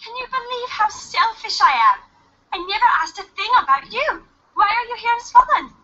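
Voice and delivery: lightly voiced silly Bowser. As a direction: play Bowser as a goofy muppet. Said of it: "silly voice I was doing there".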